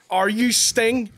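slow, teasing sneer; mocking. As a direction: drag it out mockingly. Mocking friend's pretension.

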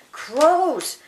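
high, loud storybook cry; shout. Acted. Scarecrow spots the cloud of birds, shouting. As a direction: call out the alarm. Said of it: "shouted the Scarecrow".

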